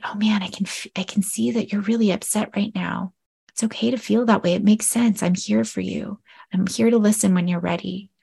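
hushed, gentle, validating voice; calm an upset kid down softly; soft reassuring demo. Shown as a demonstration. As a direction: counselor soothing an upset child, softly. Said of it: "speaking in a really soft tone".

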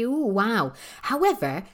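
usual speaking voice

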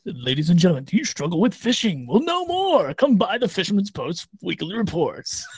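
pushy commercial announcer voice; hard sell ad. Pretend. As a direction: sell it like a cheesy ad. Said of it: "that's my commercial voice".

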